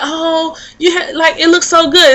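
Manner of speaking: acted gushing praise; imitated admirer. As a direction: lightly mimic a woman marveling at hair. Voicing a woman admiring her hair.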